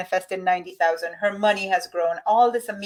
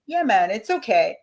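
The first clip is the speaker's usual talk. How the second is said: put-on light, playful Jamaican accent on a quoted line; a quick, jokey hint of Jamaican. A woman treating money like a lover, in a light Jamaican accent. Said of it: "there was my Jamaican accent".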